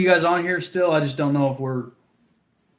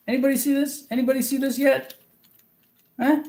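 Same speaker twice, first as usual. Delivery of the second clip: excited question; 9 semitones higher than usual. Real, not acted. Asking chat about lure.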